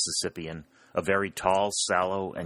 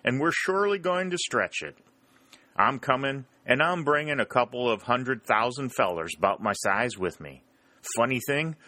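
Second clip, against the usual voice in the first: higher, lightly voiced frontiersman; cheeky retort; 4 semitones higher than usual. Whitley answering Henderson in mock cheer. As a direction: fire back with mock cheer.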